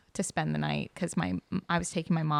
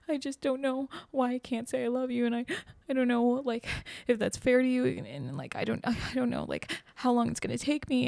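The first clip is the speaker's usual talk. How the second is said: higher-pitched imitation of a tearful boyfriend; mock tearful; 6 semitones higher than usual. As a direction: retell it in a high, upset voice. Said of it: "then he starts crying".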